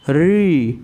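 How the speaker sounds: री with the tongue tip curled back, retroflex; demonstrating री. Shown as a demonstration. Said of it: "री का जब हम उच्चारण कर रहे हैं". (मूर्धा से री का उच्चारण)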